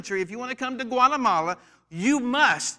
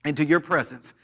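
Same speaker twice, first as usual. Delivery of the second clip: fervent preacher's prayer, words slowed and stretched. Acted. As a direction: pray over the church, drawing out the phrases. Opening prayer over the church.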